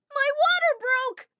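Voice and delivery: high, slow, loud cry; panicked cry. Acted. Pregnant Mary cries out to everyone, high and loud. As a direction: wail it out of the window.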